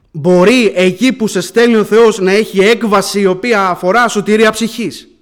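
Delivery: loud, emphatic sermon voice; forceful preaching. Real, not acted. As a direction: drive it home to the congregation.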